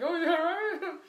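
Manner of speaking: loud, laughing taunt; mocking laughter. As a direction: laugh through it like teasing kids. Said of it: "they're laughing at me".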